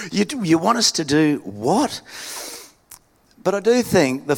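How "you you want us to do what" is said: mildly stunned, stretching the final "what"; incredulous reaction. Acted. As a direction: stammer into a disbelieving question. Congregation balks at the request.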